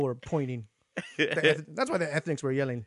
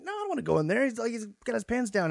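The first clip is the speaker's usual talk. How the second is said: higher, softly protesting retold voice; reluctant refusal; 5 semitones higher, 3 dB quieter than usual. Refusing the girls' favor, reluctant whine. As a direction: balk at the chore in mild mock complaint.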